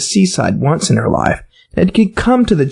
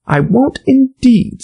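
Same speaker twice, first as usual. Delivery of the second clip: put-on higher, slow eager girl; Alice hurrying; 9 semitones higher, slower than usual. A narrator's reading. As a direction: quickly promise. Alice's hurried promise.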